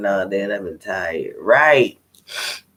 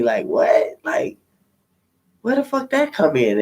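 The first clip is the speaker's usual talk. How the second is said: shocked outburst; 4 semitones higher than usual. Retold or imitated. Recalling a crude remark on a date, shocked outburst. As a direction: blurt it out in disbelief.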